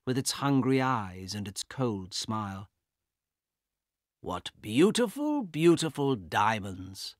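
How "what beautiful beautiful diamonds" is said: a lightly voiced, slow gloating admirer; greedy brother. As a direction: savour each word greedily. Carl admires stolen necklace.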